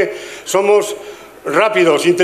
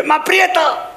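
put-on high, slow, strained kid voice; mock voice of a boy whose new braces pinch; odd tight-mouthed voice; 9 semitones higher, slower than usual. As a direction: talk like braces squeeze your mouth. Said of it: "¿Por qué hablas así?".

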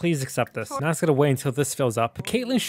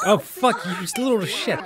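laughing swear; 6 semitones higher, slower than usual. Real, not acted. Gamer startled by her kid sim, laughing curse. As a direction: yelp then laugh it off.

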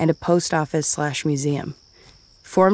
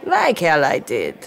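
grumbling. Acted. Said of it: "Aggie grumbled".

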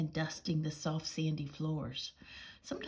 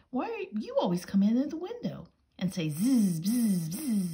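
higher, louder cross complaint; cross mouse; 5 semitones higher, 5 dB louder than usual. Acted. Mouse mimics the bee crossly.

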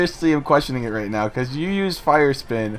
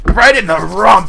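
louder, slow and emphatic; emphatic shout; 8 semitones higher, 8 dB louder than usual. Real, not acted. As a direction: belt it out slowly. Louder repeat of the line.

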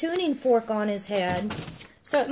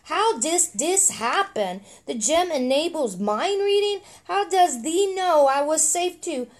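put-on old-timey talk; 3 semitones higher than usual. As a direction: ask in quaint archaic phrasing. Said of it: "he talks in, like, old-timey talk".

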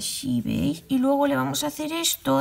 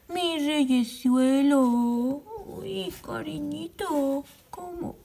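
cooing; much slower than usual. Real, not acted. Cooing to the stuffed monkey.

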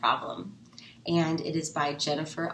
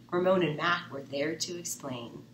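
plain reading voice

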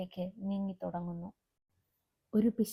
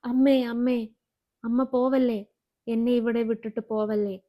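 1 crying plea; 2 semitones higher, 5 dB louder than usual. Acted. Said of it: "ഉറക്കെ കരഞ്ഞു വിളിക്കാൻ തുടങ്ങി".

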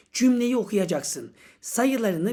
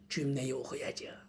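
meek student reply; 10 semitones lower, 16 dB quieter than usual. Pretend.

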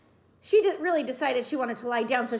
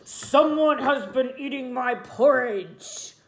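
complaining Papa Bear; 4 dB louder, slower than usual. A narrator's reading. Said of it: "Papa Bear complained".

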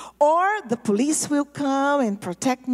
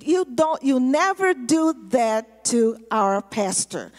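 retold angry warning; 4 dB louder than usual. Gang angrily defends pastor while shooting.

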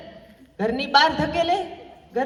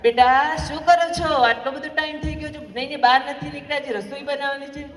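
calling out; 3 semitones higher than usual. Retold or imitated. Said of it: "સાસુમાએ બૂમ પાડી".

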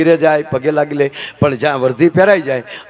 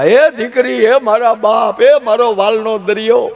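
a higher, slow, drawn-out mock wail; mock wailing grandmother; 5 semitones higher, slower than usual. Grandmother at the send-off, hammed-up wailing for the bride. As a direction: wail over the daughter like an old woman. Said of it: "મીડ્યા રડવા".

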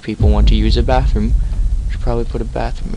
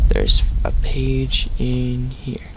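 creepy slow whisper; much slower than usual. Acted.

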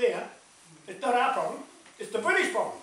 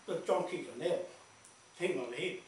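low, softer quoted voice; imitating another man's talk; 3 semitones lower, 6 dB quieter than usual. Passing on the native fellow's advice, lightly imitated. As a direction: lightly imitate him, dropping pitch and volume. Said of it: "That's how he talks".

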